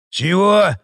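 a sharp, loud, high "what?"; surprised. Acted. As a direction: caught off guard, loud. Marauder startled by challenge.

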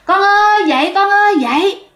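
high, insistent wake-up call; mother's high-pitched imitated call; repeated calling out. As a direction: keep calling your child from another room. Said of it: "mẹ cứ kêu".

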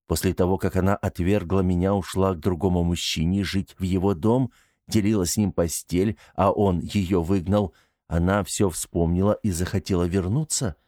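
flat, dry, detached questioning; dry and unemotional. Acted. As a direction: keep it cold and unemotional. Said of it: "Голос Артёма звучал сухо и неэмоционально".

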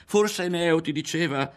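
high, loud, forced lightness; attempted levity. A narrator's reading. Ario probing Berto, with forced lightness. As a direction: try and fail to laugh it off. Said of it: "tentò di ridere".

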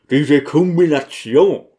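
"Kombination" with the U sound hit hard; sharply stressed U. A narrator's reading. Deacon showing off new words, "Kombination" sharply stressed. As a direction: punch the vowel in "Kombination" without mercy. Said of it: "Das U wurde unbarmherzig scharf betont".

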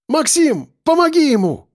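very high, strained call for help; woman's cry. A narrator's reading. Яна begging Максим to help fallen man, high cry. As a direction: cry out high, without full volume. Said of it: "крикнула Яна".

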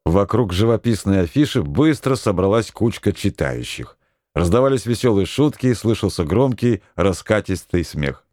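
ordinary delivery

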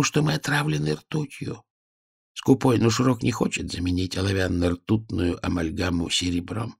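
put-on soft, weary old man explaining; hushed old worker. A narrator's reading. Old mirror worker quietly telling the girls about poisoning, weary. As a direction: confide their suffering quietly.

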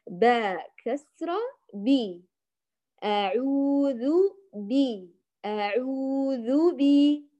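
slow drawn-out أعوذ بي, full i; completed kasra. Shown as a demonstration. Teacher models the correct reading, slow with a full kasra. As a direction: spell باء كسرة بي, then stretch أعوذ بي evenly. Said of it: "بي بإتمام".

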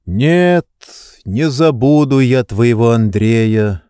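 usual speaking voice

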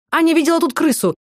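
high, loud cry of accusation; shouted accusation. A narrator's reading. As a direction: yell it out and point the finger. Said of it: "вскричала Майя".

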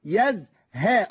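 يزهى stretched very slow, the third letter held on its fatha; very slow يزهى, lingering on the fatha; drawn-out demo word. Shown as a demonstration. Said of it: "تركز بودنك مع الحرف الثالث".

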